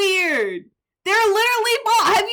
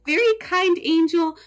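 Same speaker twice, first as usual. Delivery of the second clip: angel mode voice. Acted. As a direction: play a beautiful, kind angel. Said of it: "this is my angel mode where I am very say-so".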